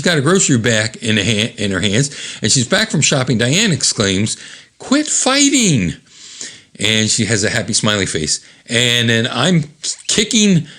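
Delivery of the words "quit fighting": high, drawn-out scold; shrill-ish mock housewife yell; hammed-up mother telling kids to quit; mock mom scolding. Diane exclaims.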